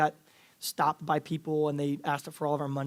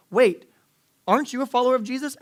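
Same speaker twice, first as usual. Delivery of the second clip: put-on young girl's voice; 8 semitones higher, 8 dB louder than usual. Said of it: "a twelve-year-old girl comes up".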